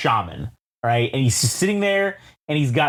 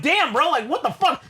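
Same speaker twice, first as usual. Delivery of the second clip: mock shocked; 10 semitones higher than usual. Reacting to shaman in story.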